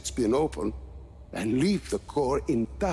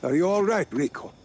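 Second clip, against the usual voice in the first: higher and louder, anxious concern; worried call; 7 semitones higher, 4 dB louder than usual. Acted. Lanza calling out to Rico after the fight, worried. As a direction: call out to check he's okay.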